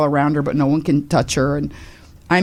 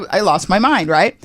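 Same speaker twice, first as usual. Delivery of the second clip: ordinary delivery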